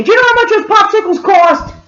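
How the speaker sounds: high mock rant at the kids; imitated screaming. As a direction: berate them as the furious mother. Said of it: "then she started screaming".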